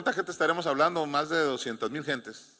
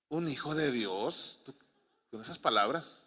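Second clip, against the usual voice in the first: incredulous question; 3 semitones lower, 8 dB quieter than usual. Real, not acted. Preacher doubts a believer would panic.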